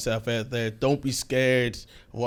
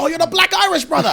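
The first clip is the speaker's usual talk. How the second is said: high imitating voice, pitched way up; Ian Wright impression; 7 dB louder than usual. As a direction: lightly mimic a celebrity greeting. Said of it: "He's like".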